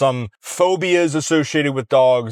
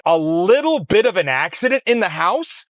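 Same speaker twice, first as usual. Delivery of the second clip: higher, disbelieving repeat of her words; incredulous echo; 4 semitones higher than usual. Retold or imitated. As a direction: throw her phrase back in disbelief.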